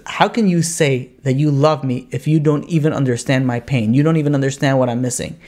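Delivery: low, earnest reproach; lightly acted drunk turned grave; really serious drunk. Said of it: "like, really serious".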